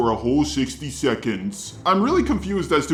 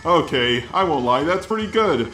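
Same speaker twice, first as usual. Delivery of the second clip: robot voice. Shown as a demonstration. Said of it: "doing this response in the robot voice".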